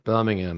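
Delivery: imitated local way of saying Birmingham; local pronunciation. Host shows co-host, local pronunciation of Birmingham. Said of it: "they say Birmingham".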